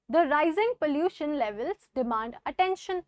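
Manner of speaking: concerned reading. Shown as a demonstration. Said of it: "concerned tone".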